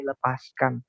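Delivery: lightly voiced God, low and unhurried; slow down gently, as a father to a child; God speaking tenderly. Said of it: "Tuhan bilang begini". (suara Tuhan yang lembut dan pelan)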